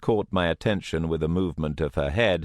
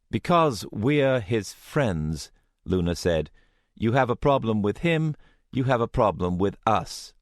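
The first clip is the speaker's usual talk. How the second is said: higher, firm loyal voice; defiant young woman; 4 semitones higher than usual. Acted. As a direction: stand your ground, defiant. Luna defends Alex.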